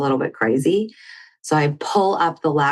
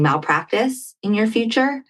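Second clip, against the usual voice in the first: half joking; 5 semitones higher than usual. Retold or imitated. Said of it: "kind of joking".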